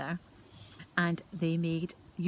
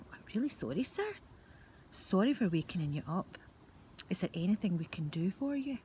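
polite apology. Acted. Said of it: "very politely".

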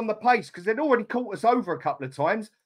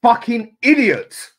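loud curse; 7 dB louder, slower than usual. Real, not acted. Second curse louder.

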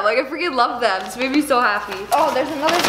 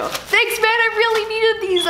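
sarcastic thanks; 9 semitones higher than usual. Pretend.

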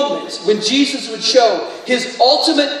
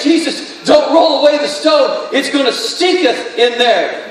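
Martha pleading; 3 semitones higher than usual. Acted. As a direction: beg Jesus not to open the tomb.

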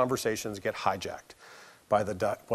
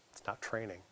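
much softer, composed and unhurried; soft calm reply; 4 semitones lower, 17 dB quieter than usual. Retold or imitated. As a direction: keep it soft and in control. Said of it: "the softer she talks".

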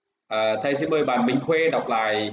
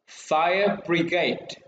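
slow model; much slower than usual. Shown as a demonstration. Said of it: "Now read out to me".

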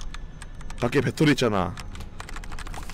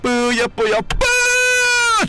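excited shout; 3 dB louder, much slower than usual. Real, not acted. Streamer hyping the roulette, shouting high at the end. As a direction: chant that bursts into a high shout. Streamer cheering the item roll.

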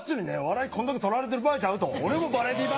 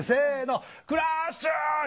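calling out; 6 semitones higher than usual. Retold or imitated. Crowd calling out the turtle.

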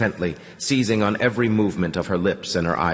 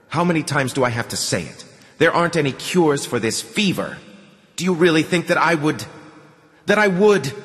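heated, rising exasperation; exasperated; 8 semitones higher than usual. A narrator's reading. Man rejects the girl's talk of a cure, exasperated. Exasperated argument, building to a broken-off question.

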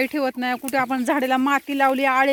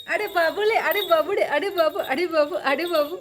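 high, tender calls to Babu; fond calling; 4 semitones higher than usual. Real, not acted. Owner lovingly calling her pet Babu. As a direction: coax the pet to come.

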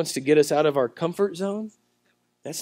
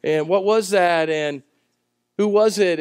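urgent Jesus; 3 semitones higher, 5 dB louder than usual. Retold or imitated. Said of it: "he's like".

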